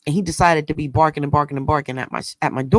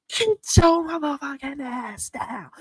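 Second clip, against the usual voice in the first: high, slow, drawn-out order; retelling the order that stopped the dog; thunderous command; 10 semitones higher than usual. Retold or imitated. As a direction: stretch each word out like a commanding yell. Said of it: "my voice was like thunder".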